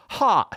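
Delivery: sharp high puff of air; mock airy gasp. Imitating what comes out in Arizona, a sharp airy burst. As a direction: spit out a burst of air like a hiss.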